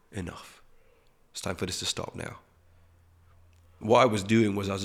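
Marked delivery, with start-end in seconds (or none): 0.1-2.4 hushed, calm authority; quiet, firm parent to a toddler; gentle but firm. Retold or imitated. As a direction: softly put an end to it. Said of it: "gently but firmly".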